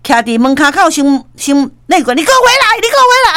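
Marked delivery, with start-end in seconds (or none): 2.2-3.3 yelling after them. Retold or imitated. Boss yelling after the couple.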